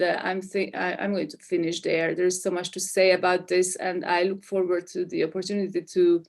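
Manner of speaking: normal talking voice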